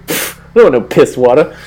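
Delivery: scoffing mock disdain; mock high and mighty. Picky guest refusing a free beer, mock high and mighty. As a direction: turn down the offer with a dismissive puff. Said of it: "all high and mighty".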